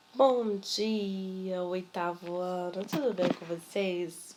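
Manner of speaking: listless, weary voice. Greeting the eighth-grade class after recording the video again: listless weary voice. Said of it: "essa voz de pasmaceira".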